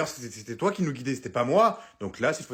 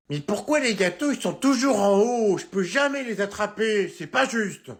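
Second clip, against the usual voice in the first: put-on whiny kid; 5 semitones higher, 3 dB louder, slower than usual. Child whines about cakes.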